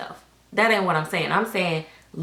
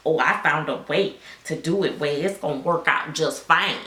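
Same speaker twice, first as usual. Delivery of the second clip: mock artist turnaround; 3 semitones lower than usual. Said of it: "soon as they learn".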